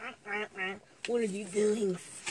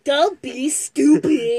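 slow, louder, stern dad; 3 semitones higher, 8 dB louder, much slower than usual. Acted. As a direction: scold like a gruff father. Echoing the dad line.

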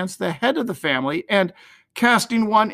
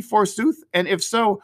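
usual speaking voice

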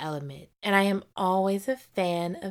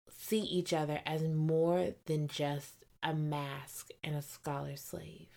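whisper; 3 semitones lower, 8 dB quieter, slower than usual. Real, not acted. Whispered aside.

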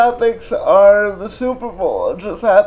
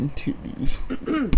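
honeyed voice; 3 semitones higher, 5 dB quieter than usual. Pretend. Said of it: "buttery voices".

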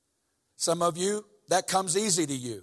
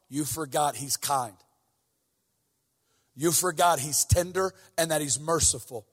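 tender preaching. Acted. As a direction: ease down and speak it tenderly.

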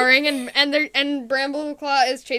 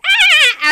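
high, loud laughing scream; mock falling scream; 13 semitones higher, 12 dB louder than usual. Squirrelflight falling down a hole, high playful scream.

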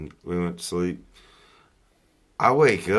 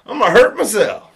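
mock panic; 11 semitones higher, 9 dB louder than usual. Retelling mid-stream panic.

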